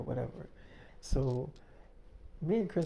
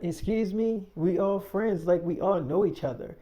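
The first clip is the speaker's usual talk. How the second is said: higher, louder, incredulous and defensive; raised, defensive retort; indignant; 5 semitones higher, 4 dB louder than usual. Retold or imitated. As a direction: push back, offended. Quarrel escalates.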